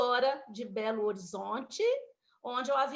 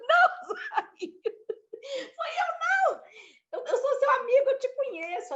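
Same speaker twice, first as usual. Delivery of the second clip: high, laughing protest; flustered friend; 13 semitones higher than usual. Retold or imitated. Young man answering the injured woman, laughing and flustered. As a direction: protest your innocence, half laughing. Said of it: "chegou um rapaz".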